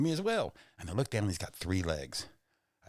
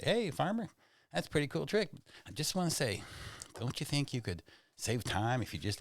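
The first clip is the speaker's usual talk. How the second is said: higher-pitched call to a farmer; lightly acted, higher-voiced onlooker; friendly passer-by calling out; 7 semitones higher than usual. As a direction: hail him over the fence, pitched up. Calling to farmer over fence.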